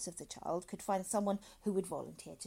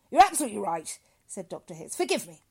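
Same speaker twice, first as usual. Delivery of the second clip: hearty doctor voice; 14 dB louder than usual. A narrator's reading. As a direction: greet him like a jolly doctor. Dr Hitz, loud.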